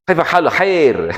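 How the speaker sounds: put-on high, slow Arab-accented greeting; imitating an Arab. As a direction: mimic an Arab asking how you are. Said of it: "Orang Arab itu".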